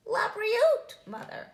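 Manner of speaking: high loud joyful shout; little spider shouting the blessing to his mother. A narrator's reading. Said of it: "Sammy shouted".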